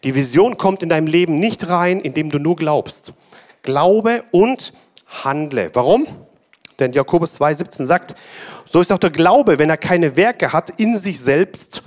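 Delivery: fiery preacher listing keys to a dream; full-force preaching. Acted. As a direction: drive each point home to the congregation. Preaching points to congregation.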